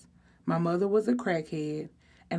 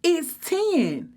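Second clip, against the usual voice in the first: high excited cry; squealing that it's time; excited yell; 10 semitones higher, 4 dB louder than usual. A narrator's reading. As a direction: blurt it out thrilled, much higher. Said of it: "Naja yelled, excited".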